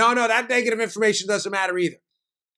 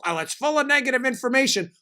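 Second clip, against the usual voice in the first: mocking quote; 6 semitones higher than usual. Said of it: "When they tell you".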